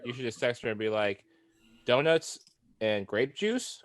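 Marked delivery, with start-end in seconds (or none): 1.8-3.8 rising question on "grape juice"; tentative texted question, "juice" stretched and rising. Acted. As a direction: draw out "grape juice" slowly, lifting it at the end. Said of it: "Question mark".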